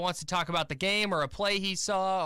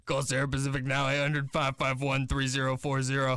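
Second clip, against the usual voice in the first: lightly voiced old New York lady; mock New York accent; 3 semitones lower than usual. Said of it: "I don't know why you have an accent".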